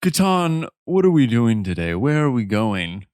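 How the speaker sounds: lightly voiced refined horse; a hint of a snooty gentleman; posh horse voice. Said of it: "I now have this sick-ass voice".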